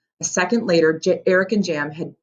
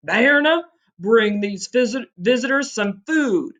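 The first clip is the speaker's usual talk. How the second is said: giant command; 6 semitones higher, slower than usual. Acted. Giant orders wife.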